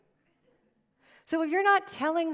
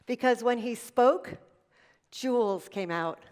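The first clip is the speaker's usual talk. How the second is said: mother's fond words; slower than usual. Retold or imitated. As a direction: let it land gently like a fond memory. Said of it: "And she said".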